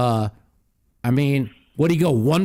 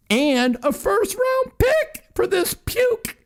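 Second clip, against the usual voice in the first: outraged sports fan, higher and slower; disgusted rant; slower than usual. Real, not acted. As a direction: pitch shoots way up on puke, drawn out slow. Ranting about the trade.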